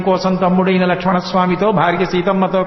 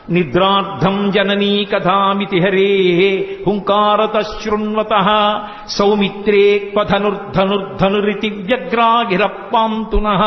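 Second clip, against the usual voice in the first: slow measured Sanskrit recitation; verse recitation; slower than usual. Shown as a demonstration. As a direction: recite the shloka deliberately.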